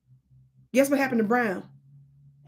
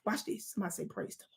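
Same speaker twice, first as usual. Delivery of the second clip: much softer, almost whispered; hushed call; 4 semitones lower, 17 dB quieter, faster than usual. Acted. Streamer quietly prompts chat, very soft. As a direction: pull it down to a hush.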